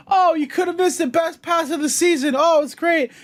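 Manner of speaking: high, sarcastic mock praise; squeaky sarcastic jab. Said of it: "It's like".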